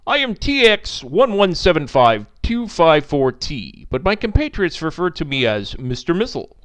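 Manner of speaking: stiff, loud, over-formal machine voice; blurting robotic missile. Acted. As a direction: artificial intelligence introducing itself, stilted. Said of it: "and then blurted".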